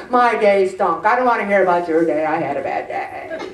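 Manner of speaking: low, fast grumbling; hammed-up moaning about the day; mock complainer. Imitates a whining complainer.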